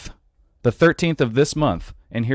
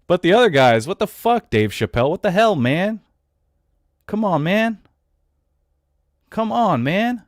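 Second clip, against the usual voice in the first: pitched way up and louder, incredulous; exasperated; 8 semitones higher, 4 dB louder than usual. Real, not acted. Host ranting at Dave Chappelle, exasperated and pitched high. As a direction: throw your hands up at him.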